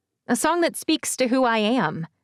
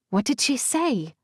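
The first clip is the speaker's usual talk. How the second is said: small voice through a phone; muffled voice; 4 semitones higher than usual. A narrator's reading. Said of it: "a small, muffled voice asks".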